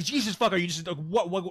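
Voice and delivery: mock exasperated yell. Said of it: "I say".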